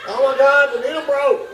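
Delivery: high-pitched, drawn-out mock panic; retold screaming. Patient thinks the needle hit bone, hammed-up screaming. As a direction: wail it high, acting out the agony. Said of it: "And I was screaming".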